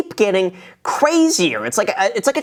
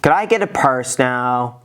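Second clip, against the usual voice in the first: mock bored request; 5 semitones lower than usual. Mocking the bored rich kid.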